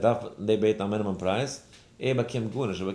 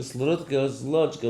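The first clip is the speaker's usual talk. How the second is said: milder, slightly raised gibberish; toned-down mock yelling; 4 semitones higher than usual. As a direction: imitate the uproar with less force. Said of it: "Keule, Keule gemacht". (שוואכער נאכגעמאכט געשריי)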